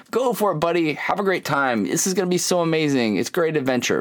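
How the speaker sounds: high, eager encouragement; cheering a kid on, lifting the pitch; excited cheering. Retold or imitated. Dad cheering son up tree.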